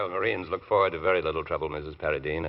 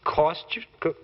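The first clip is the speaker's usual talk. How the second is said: high, startled question; husband's startled echo of his wife; surprised; 11 semitones higher than usual. Acted. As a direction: catch the word, taken aback. Husband puzzled by wife's remark.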